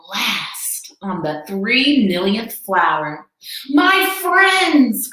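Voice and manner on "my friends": high, loud cry; cried out. A narrator's reading. Elephant crying out to his tiny friends. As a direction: call out with alarm. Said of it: "cried the elephant".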